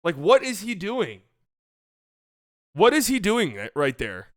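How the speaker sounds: a hint of last night's anger; incredulous retelling. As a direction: replay your own outrage. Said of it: "I was like".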